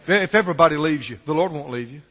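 ordinary talk, nothing marked

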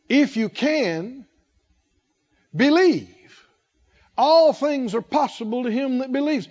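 "If you can," then a long pause before "believe."; pause after if you can. Shown as a demonstration. Pastor reading the verse to the congregation, pausing on "If you can". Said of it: "The reason I paused like that".

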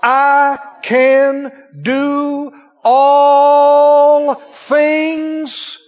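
preacher declaring the verse slowly; proclaiming scripture. Shown as a demonstration. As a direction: stretch every word like a proclamation. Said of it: "What did the Bible say?".

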